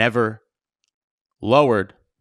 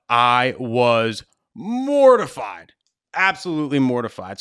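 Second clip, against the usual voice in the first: mortified; slower than usual. Real, not acted. Reliving the wedding blunder.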